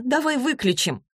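high-pitched, pleading moan; moaning plea. A narrator's reading. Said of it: "простонала Василиса".

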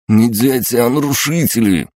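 high, loud, spiteful retort; through clenched teeth. A narrator's reading. Sidorovets corrects the sergeant about the children, spiteful through clenched teeth. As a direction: force it out angrily through gritted teeth. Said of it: "процедил Сидоровец".

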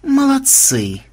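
high-pitched spiteful praise; angry mutter. A narrator's reading. Vampire watching the second stone fly, spiteful. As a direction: grumble bitter congratulations. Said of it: "зло пробормотал он".

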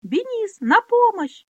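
very high, loud scream; shrieking for help. Acted. Pona shrieks to Benis for help, very high and loud. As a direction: shriek for rescue. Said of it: "завизжала Понна".

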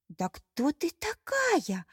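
slow, high, amazed question; astonished. A narrator's reading. Mermaid amazed by the stranger, slow and high. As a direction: draw it out in wonder. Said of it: "поразилась русалка".

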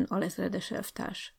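slow, soft mocking "alezredes elvtárs"; ironic remark. Teacher Bálint needling the young officer, ironic aside. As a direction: drop it quietly with irony. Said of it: "jegyezte meg Bálint tanító úr".

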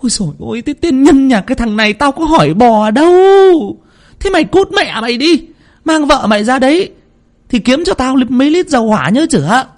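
put-on an old village healer cursing the fool; scolding old woman. A narrator's reading. Old woman scolds Bắc harshly. (giọng bà già cao vút mắng chửi)

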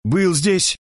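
high shriek of a retort. A narrator's reading. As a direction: snap back in a squeal. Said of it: "взвизгнула Мерседес". (Мерседес взвизгивает в ответ Эдуарду)

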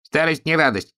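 high voice with a snicker; giggling Martians. A narrator's reading. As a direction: giggle it out mockingly. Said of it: "захихикали марсиане".

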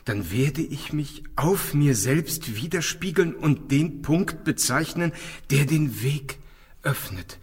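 slow, hushed recital of an ancient text; solemn reading. Acted. Julien alone reciting the papyrus words, slow and solemn. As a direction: intone the riddle slowly to yourself.

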